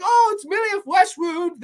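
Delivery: high-pitched, dismissive British retort; put-on British brush-off; bad British accent. Man shrugs off her wound in a hammed-up British accent. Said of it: "I don't do a good British accent".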